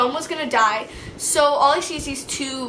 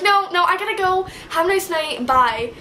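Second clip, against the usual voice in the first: high, bright fake-polite goodbye; breezy brush-off; 5 semitones higher than usual. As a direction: wave them off sweetly. Brushing off cops cheerfully.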